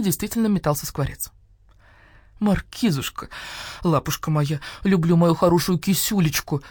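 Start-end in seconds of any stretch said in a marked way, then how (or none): 2.4-6.6 put-on baby talk. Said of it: "засюсюкала Нина Павловна".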